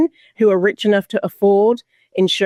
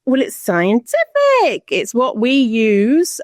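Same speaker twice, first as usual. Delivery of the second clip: slow, higher-pitched mimicry of believers; mock authority; 4 semitones higher, slower than usual. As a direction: stretch it out like a mocking know-it-all.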